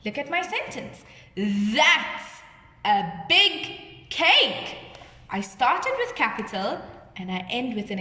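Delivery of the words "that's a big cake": slow, drawn-out demo of amazement; teacher's amazed exclamation. Shown as a demonstration. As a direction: stretch out the words as if amazed. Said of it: "I'm showing that I'm amazed".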